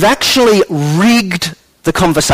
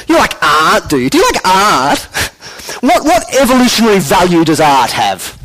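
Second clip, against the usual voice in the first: smug science student. Retold or imitated. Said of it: "some real sort of smug sort of science student goes".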